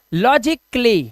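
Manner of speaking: logically as "lojik-lee", with a half k; correct pronunciation. Shown as a demonstration. Teacher demonstrates the half k in logically, correctly pronounced. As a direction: close on the k, then "lee" in logically. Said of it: "यहाँ पे आधा का".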